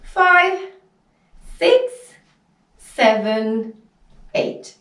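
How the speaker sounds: high, spaced-out dance counts; counting out reps. Shown as a demonstration. Teacher counting hip lifts for students, high measured count-out.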